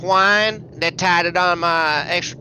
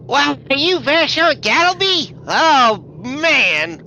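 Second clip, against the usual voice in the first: eager fan greeting, higher and brighter; excited; 5 semitones higher, slower than usual. Acted. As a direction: gush over meeting him. Stranger greets Vashon eagerly.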